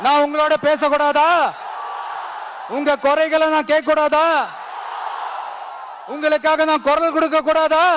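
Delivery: rising, impassioned rhetorical questions; rousing crowd appeal. Real, not acted. (மக்களை உசுப்பும் உணர்ச்சிமிக்க கேள்விகள்)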